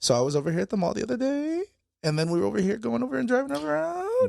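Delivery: upspeak, each phrase end rising. Explaining what upspeak is, imitating people with upspeak rising at phrase ends. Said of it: "Upspeak is when they start going".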